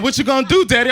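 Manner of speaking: put-on high-pitched little-kid question; imitating young son. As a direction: play a small boy challenging his daddy. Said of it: "My son's like".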